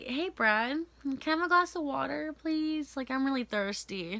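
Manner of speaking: fake sweet request. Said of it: "I was like".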